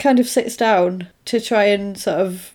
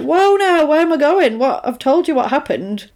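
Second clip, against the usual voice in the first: higher-pitched mock protest, easing toward the end; retold indignant protest; 5 semitones higher than usual. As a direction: act out startled objection. Retold woman protests being taken away.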